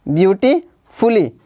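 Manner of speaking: "ब्यूटीफुली" slowly, pausing before फुली; teacher sounding out "ब्यूटीफुली" in parts; broken into syllables. Shown as a demonstration. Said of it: "जितना भाग एक बार में बोला जाता है".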